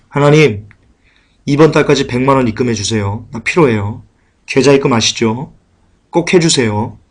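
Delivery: lightly acted casual request to God; understated parody of praying; mock prayer. Mimics believer's money-demanding prayer.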